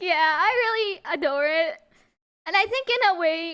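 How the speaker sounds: really adore it, said on the edge of tears; tearing up. Real, not acted. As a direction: voice catching on real tears. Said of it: "let me get the tears out".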